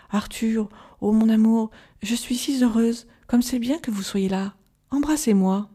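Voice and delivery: lightly voiced sensual lure; soft voluptuous voice. Changed Lucy tempting Arthur to kiss her, voluptuous. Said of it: "une voix douce et voluptueuse".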